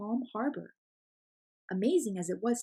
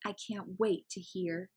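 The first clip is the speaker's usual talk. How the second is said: smiling teacher. Acted. Teacher answering the late girl, warm and slow. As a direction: gently reassure her with a smile. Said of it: "replied the teacher with a smile".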